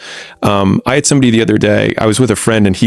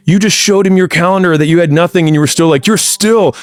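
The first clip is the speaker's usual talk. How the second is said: pitched way up, gushing with laughter in it; mock amazed friend; 8 semitones higher than usual. Friend retelling the encounter, high and giddy. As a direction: replay the friend cracking up in disbelief. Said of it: "just starts crying, laughing".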